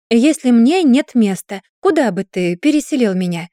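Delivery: corner him with it; pressing hard. Acted. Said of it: "напирала Кайлин".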